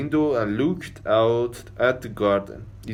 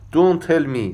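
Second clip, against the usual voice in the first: louder and higher, cutting in; sharp interruption; 5 semitones higher, 5 dB louder, faster than usual. Acted. Doctor cuts Diane off before she speaks, raised voice. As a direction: stop her mid-sentence, raised voice.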